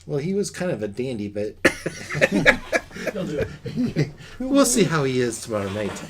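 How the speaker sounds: fast, giggling through the line; amused mercenary, laughing it off. Acted. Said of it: "as she goes".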